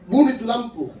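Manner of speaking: loud, high shouted order; imitated wife's yell; shouting. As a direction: yell it as a wife from the bedroom. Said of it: "dari dalam kamar itu berteriak".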